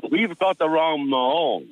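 slow, drawn-out Monaghan accent imitation. Raider telling his mate they have the wrong man, in a Monaghan accent. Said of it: "He gets this kind of a Monaghan accent".

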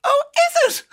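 high, loud astonished reaction; retold surprise. Himself learning what the nickname means, exaggerated surprise. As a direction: play up your own astonishment. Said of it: "I was really surprised".

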